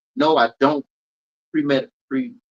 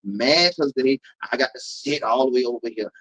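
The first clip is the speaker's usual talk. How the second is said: comic tirade, punching every new complaint; mock exasperated rant. Host listing petty audience complaints, mock exasperation.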